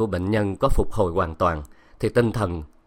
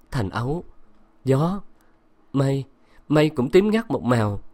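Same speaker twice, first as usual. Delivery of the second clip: put-on delirious girl; 3 semitones higher than usual. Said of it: "Thanh vẫn mê sảng".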